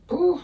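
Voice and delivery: short, high puff of air; puffed pouf. Real, not acted. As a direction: blow out a high little "pouf" while thinking. Puffs while searching for words.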